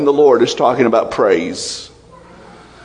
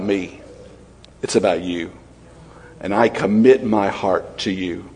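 humble prayer; 4 semitones lower than usual. Retold or imitated. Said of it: "here's the way you come".

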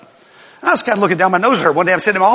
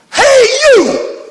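loud high yell across the field; shouting; 7 dB louder than usual. Retold or imitated. Preacher retelling yelling at the other coach, loud shout. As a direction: call out sharply at the coach.

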